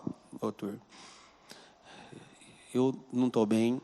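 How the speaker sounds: subdued, understated voicing of someone crying; retold tearful plea. Secretary confides in her doctor, understated distress. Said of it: "Tremendo e chorando".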